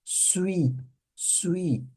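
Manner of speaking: suis said as one quick swee glide, softly; teacher demonstrating French suis. Shown as a demonstration. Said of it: "como se fosse falar suíço".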